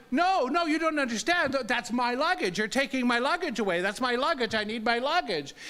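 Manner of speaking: high opening, rushing on; insistent, acted-out objection; urgent protest. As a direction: plead your case to an official.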